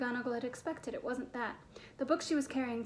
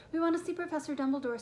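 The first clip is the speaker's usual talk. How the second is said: higher, mildly bold request; rather brave; 4 semitones higher, 4 dB louder than usual. Acted. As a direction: speak up with a touch of bravery. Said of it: "said Hermione rather bravely".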